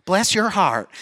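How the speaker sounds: imitated Southern mother-in-law; mock pity in a light Southern accent; lightly voiced Southern belle feeling sorry; Southern sympathy. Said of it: "she feels bad for me".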